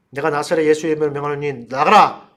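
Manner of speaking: exorcism command building to a loud cry; demonstrated shout. Shown as a demonstration. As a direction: start measured, burst out on the final order. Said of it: "고함 질러야 된다고 제가 가르쳐 줬습니다".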